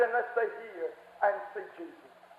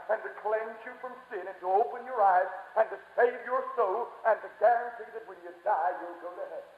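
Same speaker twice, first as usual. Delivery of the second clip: gradually sinking softer and lower; preaching, settling down; 4 semitones lower, 5 dB quieter than usual. Real, not acted. Preacher promises salvation to listeners, fading to hushed. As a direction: ease down to a quiet, satisfied close.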